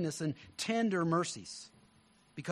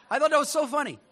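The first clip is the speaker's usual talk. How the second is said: laughing; 8 semitones higher, 8 dB louder, faster than usual. Real, not acted. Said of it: "laughing at own joke".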